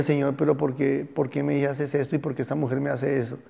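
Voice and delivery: a hint of heartbroken pleading; mild grieving plea. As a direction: Hosea pleading with God over his unfaithful wife, softly grieving. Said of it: "Y Oseas lloraba".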